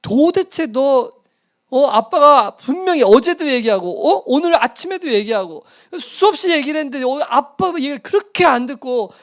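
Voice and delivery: put-on father scolding his child after the sermon. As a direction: pour out the anger on the child. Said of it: "쏟아부어서 혼냈어요".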